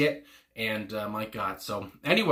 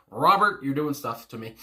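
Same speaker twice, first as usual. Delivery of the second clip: excited gush; 3 semitones higher, 5 dB louder than usual. Real, not acted. Swooning over singer's voice.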